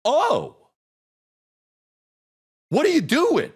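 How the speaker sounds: retold weepy squeak, slow at the end; choked-up crying voice. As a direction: caught off guard and welling up. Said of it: "and I start crying".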